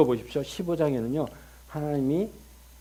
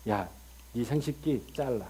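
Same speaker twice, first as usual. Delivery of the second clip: stern command; 3 semitones lower, 4 dB louder than usual. Acted. God commanding circumcision.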